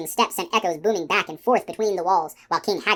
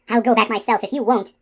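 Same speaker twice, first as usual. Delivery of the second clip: louder, higher, determined threat; raised, insistent voice; demanding; 4 semitones higher, 6 dB louder than usual. A narrator's reading. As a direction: insist forcefully on going. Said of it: "she demanded".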